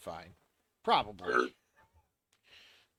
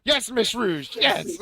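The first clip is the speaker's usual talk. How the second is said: excited cheering; 8 semitones higher, 8 dB louder than usual. Real, not acted. Cheering after clip.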